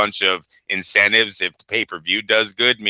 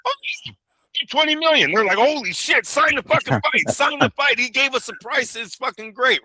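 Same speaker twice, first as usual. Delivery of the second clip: high, put-on Latin accent for Turkey; a podcaster voices Turkey's glee in a mock Latin accent. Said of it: "my Turkey has a Latin accent".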